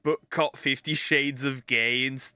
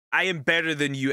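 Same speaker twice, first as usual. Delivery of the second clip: superior attitude; faster than usual. Retold or imitated.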